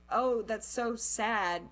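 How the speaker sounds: slow, lightly imitated sympathy; retold pity. People hearing childhood story, imitated pity. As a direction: mimic someone feeling sorry for you. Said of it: "they, like, feel bad for me".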